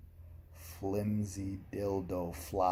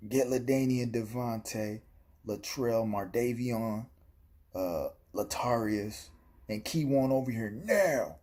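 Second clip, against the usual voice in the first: yelled summons; 5 semitones higher, 4 dB louder than usual. Retold or imitated. Bluffing the robbers with made-up friends, yelled summons. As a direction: holler for your crew, building to the last word. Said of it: "And then I yelled out".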